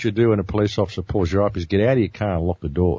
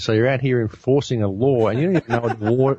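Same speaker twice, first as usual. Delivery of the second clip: higher-pitched, incredulous challenge; mock incredulity; 5 semitones higher than usual. Driver challenging an officer who can't quote the law, mock incredulous. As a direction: act out astonished disbelief, drawing out the last words.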